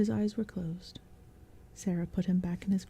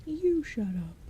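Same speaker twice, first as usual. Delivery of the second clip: stupid goblin; 6 semitones higher, slower than usual. Acted. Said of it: "said the stupid goblin".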